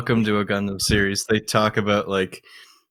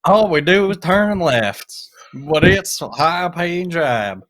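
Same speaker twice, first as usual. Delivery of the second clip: mock driver voice; 8 semitones higher, 6 dB louder, slower than usual.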